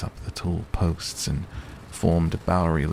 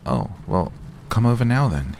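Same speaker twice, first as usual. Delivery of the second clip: bursting into eager, higher and louder; light up with a sudden good idea; suddenly keen invitation; sudden enthusiasm; 6 semitones higher, 3 dB louder than usual. A narrator's reading. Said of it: "he said with sudden enthusiasm".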